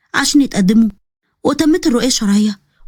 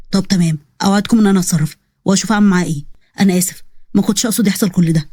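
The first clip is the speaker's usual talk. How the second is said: lower, fast apologetic man; lightly lowered sorry young man; apologetic officer; 5 semitones lower, faster than usual. Acted. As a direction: promise quickly in a lower voice. Nabil promises to fix it.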